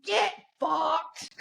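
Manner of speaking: high, curt gruff British; mock Roy Kent. Retelling a show scene, gruff mock British retort. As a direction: spit it back like Roy Kent. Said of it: "And he goes".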